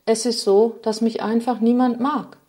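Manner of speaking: a touch of weary grief in a storyteller's voice; lightly voiced Sadness. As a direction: Sadness lamenting her fate, gently voiced. Sadness pours out her lament.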